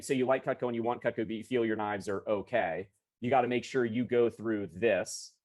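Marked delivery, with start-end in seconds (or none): 0.0-2.9 rattles it off quickly, no pause; rushed pitch. Shown as a demonstration. Salesman rushing a customer's objection back at her, hurried. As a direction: blurt the restatement straight out. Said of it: "I'm not just gonna start by saying".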